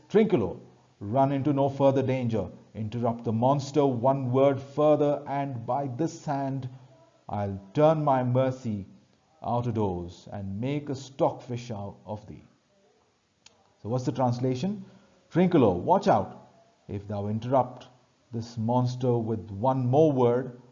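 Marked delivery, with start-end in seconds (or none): 0.1-12.4 emphatic, mildly angry telling-off; scolding. Acted. Stefano scolds Trinculo for interrupting the monster, mildly angry scolding. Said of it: "he scolds Trinculo and says". 15.3-20.6 emphatic warning, a touch of anger; scolding. Acted. Stefano warns Trinculo not to interrupt the monster, mildly scolding. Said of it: "he scolds Trinculo and says".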